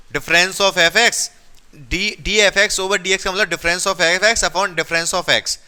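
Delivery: walk them through it again, word by word; slow re-explaining. Shown as a demonstration. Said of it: "एक और बार explain करूं".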